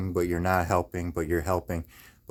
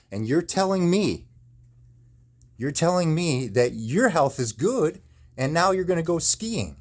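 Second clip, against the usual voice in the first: much higher, furious retelling; retold outburst; 8 semitones higher than usual. Retelling what he said to his neurologist, furious and high. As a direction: rage at the doctor all over again. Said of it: "I say".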